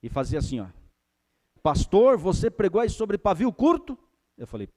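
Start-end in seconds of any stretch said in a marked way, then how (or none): 1.6-4.0 a high, loud call of "Pastor"; man's challenge. Retold or imitated. Strong man at the church door challenging the pastor, loud and high. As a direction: lean in on the pastor like a big strong man gripping his hand.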